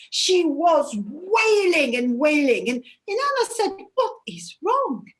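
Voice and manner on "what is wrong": higher, whispered worry; whispered question. Acted. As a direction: ask it in a hushed whisper. Inanna approaches screaming sister.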